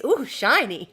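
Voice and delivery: lightly voiced magpie delight; a hint of a dazzled magpie; ooh shiny thought. To herself about the fabric, mock dazzled coo. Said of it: "all I can think is".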